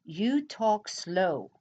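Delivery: drawn out, unhurried; mock slow reading; slow comment read. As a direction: read the comment back slowly. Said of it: "here's another one".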